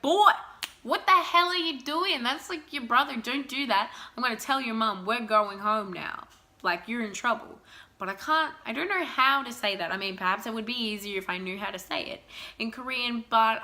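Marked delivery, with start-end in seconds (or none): 0.0-7.6 mock telling-off. Au pair scolding a boy for hurting his brother, exasperated and loud. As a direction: play the fed-up babysitter laying down the law. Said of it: "I'd be like".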